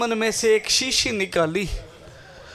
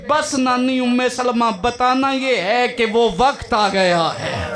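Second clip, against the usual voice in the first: crying out. Retold or imitated. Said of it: "Shabir रो के कहते हैं".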